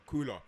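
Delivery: "cooler" with a clearly sounded L; L fully pronounced. Real, not acted. Friend saying mornings are cooler, L fully pronounced. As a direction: stress the L sound inside "cooler". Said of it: "Why are you saying it like that".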